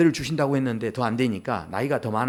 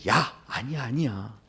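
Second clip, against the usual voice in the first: soft, dropping lower and quieter; gentle reassurance; 3 semitones lower, 5 dB quieter, slower than usual. Acted. God answering Abraham who scoffed, gentle reassurance. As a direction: wave the doubt away gently.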